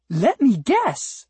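high, drawn-out, breathy sweetness; breathy, sweet voice. A narrator's reading. Unseen flower addresses the cat from behind, breathy and sweet. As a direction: coo it slowly and sweetly, pitched well up. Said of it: "said a breathy, sweet voice".

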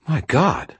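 high-pitched startled exclamation; shocked. A narrator's reading. Friend opening the door on the wizard, shocked.

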